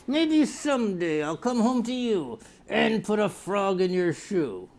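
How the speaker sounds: slow dopey daydreaming voice; lightly voiced lazy pothead; mock pothead. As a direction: drawl it out like a stoned dreamer. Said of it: "petting your little puppy and going".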